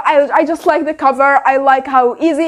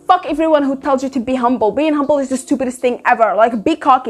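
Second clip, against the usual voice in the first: cocky; 2 semitones lower, much faster than usual. Retold or imitated. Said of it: "the cockiness".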